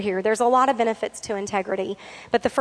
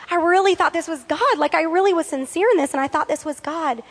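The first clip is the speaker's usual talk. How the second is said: imitating a tearful plea; 5 semitones higher than usual. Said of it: "she came and she was crying".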